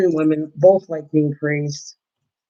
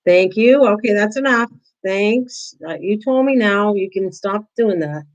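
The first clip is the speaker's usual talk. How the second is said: higher, friendly reassurance to a barking dog; polite calm to the dog; 4 semitones higher than usual. Shown as a demonstration. Settling her barking dog like a human: higher, gentle, polite. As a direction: calmly thank and settle the dog like a person. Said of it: "I talk to it like it's a human being".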